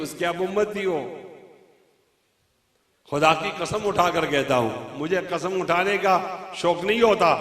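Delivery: quiet, earnest words; sincere. Real, not acted. Preacher congratulating the gathering, quiet and heartfelt.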